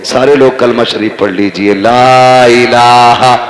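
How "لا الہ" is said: very slow, stretched devotional chant; drawn-out kalma recitation. Acted. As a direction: draw out each word of the kalma. Leads congregation in kalma. (کلمہ کھینچ کر پڑھنا)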